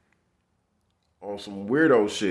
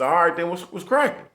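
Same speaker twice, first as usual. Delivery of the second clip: nervous friendly greeting; 6 semitones higher than usual. Retold or imitated. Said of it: "I said".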